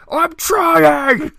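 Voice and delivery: very high, loud, drawn-out whine; mock desperate whine. Stuck outside the bank door, slow high whining. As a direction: plead helplessly. Desperate reply, stretched and shrill.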